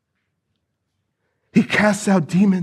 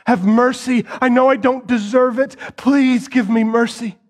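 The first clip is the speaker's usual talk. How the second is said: crying out; 4 semitones higher than usual. Acted. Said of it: "He cries out".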